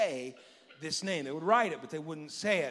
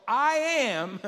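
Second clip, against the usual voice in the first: louder, higher declaration of the name; booming proclamation; 6 semitones higher, 7 dB louder than usual. Acted. Pastor voicing God to Moses, booming proclamation. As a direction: proclaim it with full weight.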